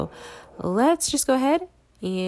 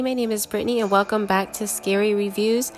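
congested voice from a cold; stuffy nose. Real, not acted. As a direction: talk through a blocked nose. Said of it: "I know I sound super congested right now".

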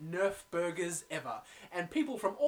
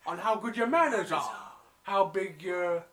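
lightly done Brooklyn waitress; slow, drawn-out Brooklyn accent; 3 dB louder than usual. Retold or imitated. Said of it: "the waitress has a Brooklyn accent".

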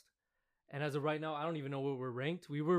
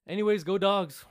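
cheering; 4 semitones higher, 10 dB louder than usual. Real, not acted. Cheering for his team.

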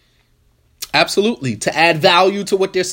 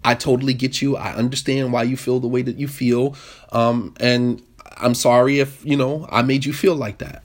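validating tone; 4 semitones lower than usual. Shown as a demonstration. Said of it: "You validate it".

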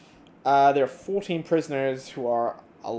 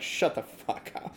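whisper; 4 dB quieter, slower than usual. Acted. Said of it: "Warren's like".

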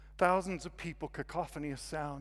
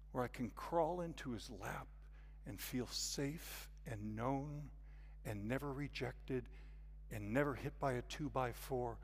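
tender preaching; 6 dB quieter than usual. Real, not acted. Preacher describes being safe with God, hushed and tender. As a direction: speak gently, pausing between each comfort.

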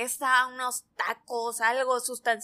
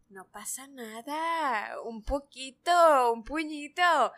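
slow coaxing whisper of temptation; tempting voice; slower than usual. Retold or imitated. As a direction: coax slowly like a tempter. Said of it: "viene este cabrón y dice".

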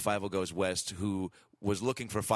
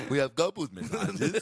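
bad Mexican accent, laughing; 4 semitones higher, 3 dB louder than usual. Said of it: "that was a terrible fucking Mexican".

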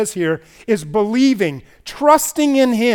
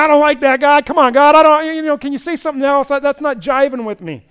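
higher, complaining protest to God; mock grumbling; 7 semitones higher, 6 dB louder than usual. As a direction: grumble like a put-out believer. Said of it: "how often do we grumble".

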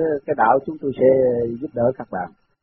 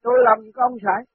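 mildly cross, higher-pitched denial; imitated annoyed retort; retold indignation; 5 semitones higher than usual. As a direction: protest as if falsely accused. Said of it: "ông đã sân lắm".

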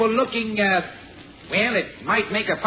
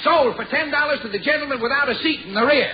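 auctioneer; 3 semitones higher than usual. Acted. Auctioneer closes sale.

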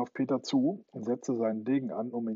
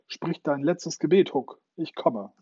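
higher, louder and slow, a bold challenge; calling out; 4 semitones higher, 5 dB louder than usual. Acted. Peter challenges Hook from the mast, a loud slow call. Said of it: "rief er ihm vom Mast aus zu".

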